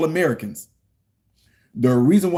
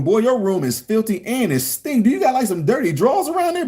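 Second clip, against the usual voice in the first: scolding dad; 5 semitones higher than usual. Retold or imitated. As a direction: scold the kid's messy room. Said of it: "Me telling my son".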